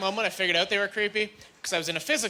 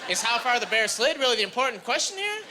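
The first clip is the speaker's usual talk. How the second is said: incredulous rant; 9 semitones higher than usual. Retold or imitated. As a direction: rant in outraged disbelief. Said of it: "looking around like".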